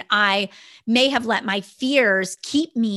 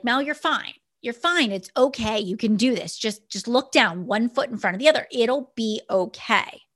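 reassuring friends. Retold or imitated. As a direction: lightly imitate friends talking someone through it. Friends reassure her on the climb.

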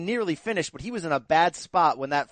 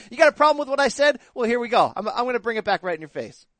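a loud, fast, higher heel taunt; pro wrestling heel; 5 semitones higher, 5 dB louder, faster than usual. Retold or imitated. Colby doubling down on critics in a loud heel taunt. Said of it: "that's some pro wrestling heel stuff".

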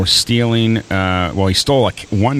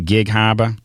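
put-on Gig Harbor in a light Boston accent. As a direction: drop the r's Boston style, lightly. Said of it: "do you use a Boston accent when you say Gig Harbor".

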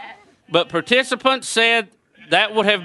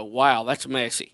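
retold onlooker; 8 semitones lower, 6 dB quieter than usual. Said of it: "people go".

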